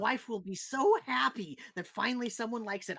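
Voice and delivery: thrilled someone likes his wine; delighted innkeeper. Acted.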